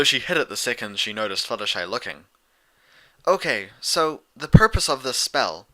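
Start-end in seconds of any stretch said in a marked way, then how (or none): 3.3-5.7 Twilight. Acted. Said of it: "Twilight began".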